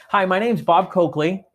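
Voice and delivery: name run together fast, no pause between "Bob" and "Coakley"; the wrong way, meshed together; rushed name. Shown as a demonstration. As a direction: blur "Bob Coakley" into one quick word. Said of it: "don't come across like this".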